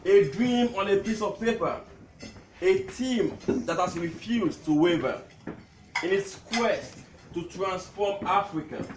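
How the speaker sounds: measured, declaimed tribute with pauses; poem recital. Acted. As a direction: recite line by line to a gathering. Recites his poem to gathering.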